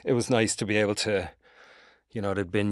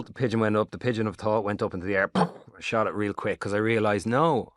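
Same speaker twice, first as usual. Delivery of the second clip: usual speaking voice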